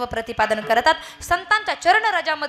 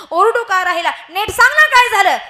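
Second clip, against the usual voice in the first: wife pleading; 7 semitones higher, 6 dB louder than usual. Acted.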